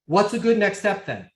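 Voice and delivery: easy open question, a little lifted; open, unpressured ask; demonstrated sales tonality. Shown as a demonstration. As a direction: repeat the model question for trainees. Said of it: "in that exact tonality".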